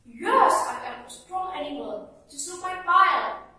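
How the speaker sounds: high, loud angry boast; angry shout. Acted. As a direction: bellow it back at the frogs. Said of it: "the donkey was angry and shouted".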